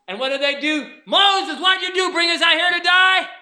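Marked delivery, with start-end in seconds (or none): 1.0-3.3 1 panicked crowd. Retold or imitated. Panicked Israelites at Red Sea.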